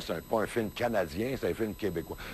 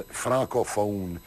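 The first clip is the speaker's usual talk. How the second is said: mocking francophone; 2 semitones lower, much slower than usual. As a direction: draw out Francophone slowly, with mock disdain. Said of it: "c'est effrayant".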